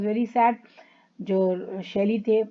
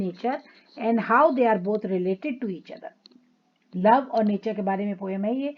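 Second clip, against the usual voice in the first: slow, careful reading of the notes; unhurried classroom reading; reading aloud; much slower than usual. Acted. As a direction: read the textbook line slowly to the class. Reads English text from slide.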